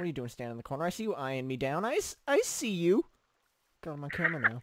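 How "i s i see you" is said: creepy voice. Acted. Mock creepy voice at someone watching.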